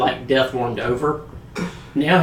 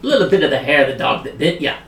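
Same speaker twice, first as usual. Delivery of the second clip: quick, run-together patter; too fast to follow; faster than usual. Acted. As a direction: rattle it off in one breath. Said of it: "need to talk a little slower".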